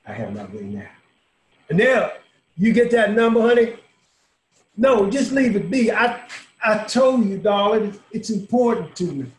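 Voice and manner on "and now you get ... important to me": loud, high call to someone across the room; loud call to someone out of sight. Acted. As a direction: raise the voice to reach someone away from him. Calling out to someone offstage.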